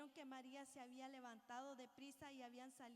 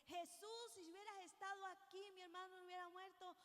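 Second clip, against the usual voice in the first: Marta's manner; 5 semitones higher than usual. Retold or imitated. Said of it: "pero distinta manera".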